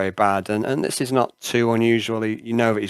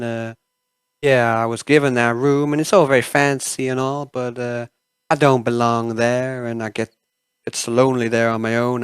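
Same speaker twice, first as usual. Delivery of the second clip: Melissa; 4 dB louder than usual. Acted. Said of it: "Melissa goes".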